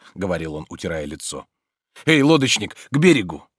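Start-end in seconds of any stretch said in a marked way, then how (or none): 2.0-3.5 louder call across the boat. A narrator's reading. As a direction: call the boatman ashore. Calling to the boatman. (громко зовёт лодочника)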